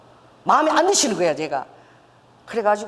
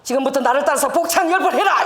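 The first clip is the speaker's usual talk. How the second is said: commanding voice; 4 semitones higher, 5 dB louder than usual. Retold or imitated. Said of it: "성령님께서".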